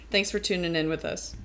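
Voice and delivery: talking through hiccups; a hiccup breaks the words. Real, not acted. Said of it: "I got the hiccups".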